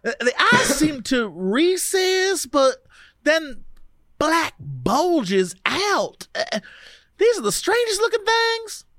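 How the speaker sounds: light Louisiana drawl for a sleepy hypnotized woman; a hint of Louisiana in a dazed recollection; Louisiana accent. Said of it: "read her in a Louisiana accent".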